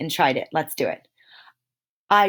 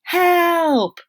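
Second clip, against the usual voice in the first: "Help!" shouted high and loud; a sharp shouted "Help!"; yelling; 9 semitones higher, 4 dB louder than usual. Shown as a demonstration. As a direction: yell "Help!" in alarm. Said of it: "you should be yelling".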